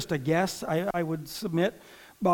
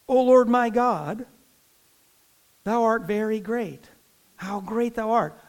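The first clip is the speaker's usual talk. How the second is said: reciting with praise; 3 semitones higher than usual. Acted. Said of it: "Psalm one hundred and four says".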